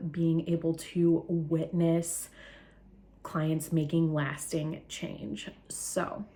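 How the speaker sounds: slow, breathless and winded; out of breath, gasping between words. Real, not acted. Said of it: "I'm sorry that I am so out of breath".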